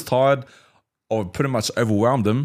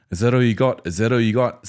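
taunting; 5 dB louder than usual. Shown as a demonstration. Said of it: "I'm saying to him".

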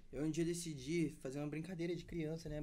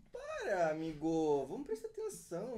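laughing; 3 dB louder, slower than usual. Real, not acted. Friends distract him mid-story.

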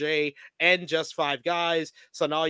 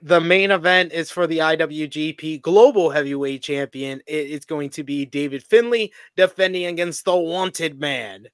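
louder ring-announcer lilt; main-event announcement; 7 dB louder than usual. Acted. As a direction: announce the main event, drawing out the challenger's name.

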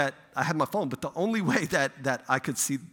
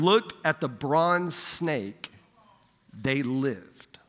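measured, slow reading of a Bible story; scripture reading; slower than usual. Acted. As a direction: read the passage as sacred text, unhurried. Reads the Bible passage aloud.

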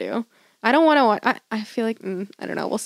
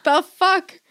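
indignant rant; 5 semitones higher than usual. Real, not acted. Rant about paying twice.

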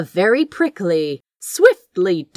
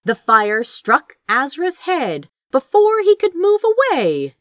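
ordinary delivery, nothing marked

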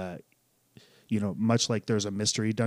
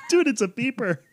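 excited; 10 semitones higher, 6 dB louder, faster than usual. Real, not acted. Realizing the phone is a beeper.

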